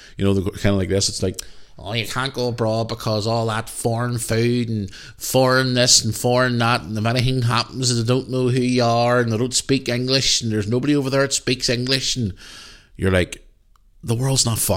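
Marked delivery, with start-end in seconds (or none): 1.8-12.2 put-on wee old Belfast granny voice and accent. Telling a story, act out someone warning against going abroad, in an old Belfast wee granny voice. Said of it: "the wee granny voices, I always do this when I tell these stories".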